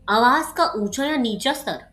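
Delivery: cheerful reading voice; happy tone. Shown as a demonstration. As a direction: read it sounding pleased. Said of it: "खुश होके". (खुश लहजे में पढ़ना)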